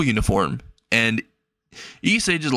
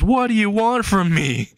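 screaming at pursuer; 8 semitones higher than usual. Acted. Boy yelling at the girl chasing him, high desperate yell. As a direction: scream it back over your shoulder. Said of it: "He starts screaming this".

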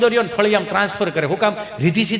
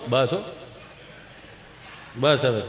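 low, soft mock consoling; hushing father; 8 semitones lower, 9 dB quieter, slower than usual. Father quietens his own crying child, low hush.

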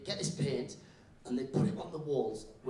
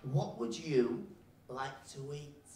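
spoken slowly to a foreigner; slow, careful teacher; much slower than usual. Acted. Teacher asking a new Iranian kid about lunch, slow and careful. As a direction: space out each word carefully. Teacher addressing non-English-speaking child.

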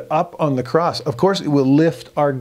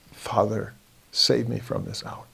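troubled son; 5 dB quieter than usual. Acted. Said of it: "What's the son side saying".

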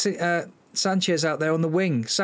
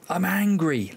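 venting at his own team; real exasperated outburst; 6 semitones higher than usual. Real, not acted. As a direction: let the frustration burst out.

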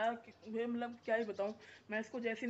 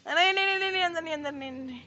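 much higher, louder burst of no that fades down; urgent no no; 7 semitones higher, 10 dB louder, faster than usual. Real, not acted. Vlogger stopping a puppy from running indoors, urgent then fading. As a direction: stop the pup fast, then ease off.

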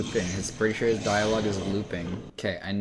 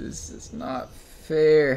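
1 whiny complaint; 6 semitones higher, 4 dB louder, much slower than usual. Real, not acted. Whining at the unfair game.

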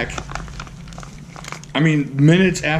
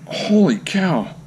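awed exclamation; 7 semitones higher, slower than usual. Real, not acted. Awed at knife.

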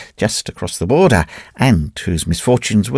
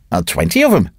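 placid. Acted. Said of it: "said Dravot placidly".

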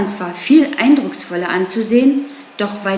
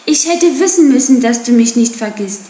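glad; 3 semitones higher, 5 dB louder than usual. Acted. Joyful reunion with Akela.

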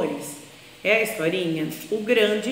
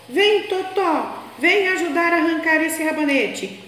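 put-on little girl calling; 6 semitones higher than usual. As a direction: stretch out the call to the dog. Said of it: "a netinha gritou para o Totó".

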